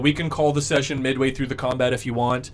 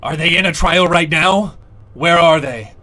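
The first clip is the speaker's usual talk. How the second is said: giant asking; 3 semitones higher, 9 dB louder than usual. Acted. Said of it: "He says".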